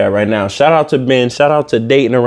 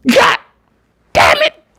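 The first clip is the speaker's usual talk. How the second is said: mock anguish. Mock despair after crying bit.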